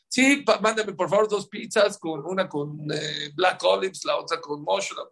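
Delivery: lightly acted phone order, starting high; pretend pizza order. Rabbi phoning in pizzas, mock-casual ordering voice. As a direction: mimic ordering pizza, settling into casual talk. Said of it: "hagan de cuenta que estaba pidiendo una pizza".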